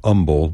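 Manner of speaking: "umble" with no h; Texan "umble"; dropped h. Shown as a demonstration. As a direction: say "umble", h gone. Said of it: "not humble".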